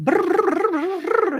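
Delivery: mock high, fast, rattled-off babble. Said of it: "it's hard to hear me 'cause I'm talking so fast".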